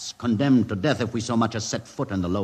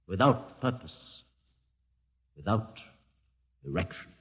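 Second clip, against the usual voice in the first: fading lament; 7 dB quieter than usual. Acted. Lament fades out.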